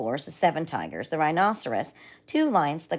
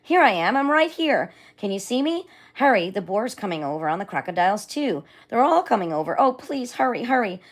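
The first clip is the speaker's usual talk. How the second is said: loud, high frantic calls; dragon yelling; 4 semitones higher, 5 dB louder than usual. Acted. Dragon calling to the father for rescue, loud and frantic. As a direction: beg to be rescued quickly.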